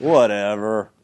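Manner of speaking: fake slurred drunken voice. Retelling a woman's reply to an officer's charges, imitating a drunken voice. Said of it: "in a drunken voice".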